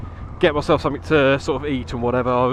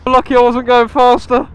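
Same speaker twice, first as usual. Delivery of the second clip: loud, higher, breathless relief; shaken and laughing; 9 semitones higher, 5 dB louder than usual. Real, not acted. Rider recovering after hitting a pheasant, loud excited relief. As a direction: still buzzing from the near miss.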